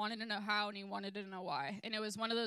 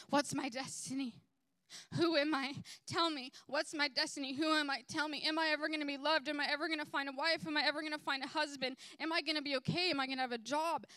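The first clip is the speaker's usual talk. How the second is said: higher, urgent imitation of anxious questioners; pleading seekers; 4 semitones higher than usual. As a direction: fire off needy questions, pitched up and insistent. Voicing people begging to know futures.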